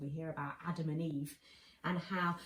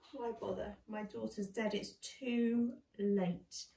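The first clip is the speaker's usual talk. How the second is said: sad father. Acted. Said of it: "He felt sad".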